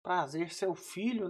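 mock-sweet son greeting his mother; eager sweet greeting. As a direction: lay it on thick, the doting son. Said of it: "Eu falei".

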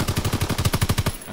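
slow, breathy, unsure; drawn-out whisper. Real, not acted. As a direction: whisper it slowly in disbelief. Unsure about winning the shootout.

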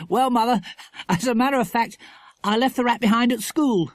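measured-out, teasing admission; grinning boy. A narrator's reading. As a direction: confess playfully, with a grin. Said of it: "with a grin".

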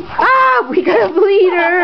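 mock alarm. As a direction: play up the fake emergency.

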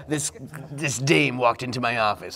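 a hint of a gumshoe voiceover; noir detective. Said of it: "I would have loved a voiceover".

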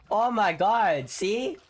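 sudden loud thrilled gasp of joy; excited outburst. Real, not acted. Gamer sees his cat land the winning hit, thrilled outburst. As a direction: blurt it out, delighted. Big hit clears the stage.

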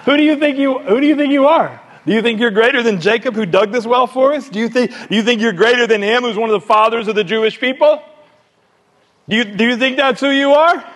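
hammed-up indignation, pitched high; who-does-he-think-he-is outrage, acted; indignant challenge. Samaritan woman challenging Jesus at the well, indignant.

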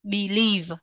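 believe said slowly for students to copy; clear teacher model. Shown as a demonstration. Teacher models believe for students, clear and careful. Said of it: "Chúng ta có từ believe".

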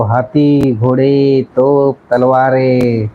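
very slow, dramatic declaiming; weighty, measured recital of heroic lines; film dialogue. Acted. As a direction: deliver it like a grand screen monologue, each phrase drawn out. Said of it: "लय भारी dialogue बोलतो तो".

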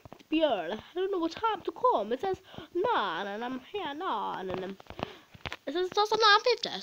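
lightly voiced muddled kid, rambling; confused kid impression. Pretend new pupil confused about the start time. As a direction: play a kid unsure when school starts. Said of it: "That was a good impression of someone".

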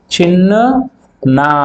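చిన్న said as చిన్ then నా; split syllables. Shown as a demonstration. Teacher showing pupils how చిన్న splits. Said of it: "ఇలా పలుకుతాం".

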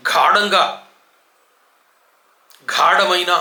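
గాఢంగా and గాఢమైన with breathy GH, plain d; faulty GHAA-danga, GHAA-damaina for గాఢంగా, గాఢమైన; mispronounced aspirated gha. Shown as a demonstration. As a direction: wrongly puff the గ in గాఢంగా, గాఢమైన. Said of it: "గాకి ఒత్తు లేదు".

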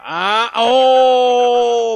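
loud, high, drawn-out "oooh"; big stretched-out exclamation; exclaiming. Real, not acted. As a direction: let out a long rising "ah, oh". Startled discovery during document check.

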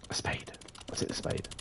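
sneaky whisper. Real, not acted. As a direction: whisper so nobody hears. Sneaking in the neighbour's house.

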